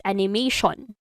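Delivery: "animation" in a Filipino accent, full O at the end; Filipino-accented "animation" with emphasis on the O. Shown as a demonstration. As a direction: say "animation" the Filipino way, ending in "shon". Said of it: "for a more Filipino accent".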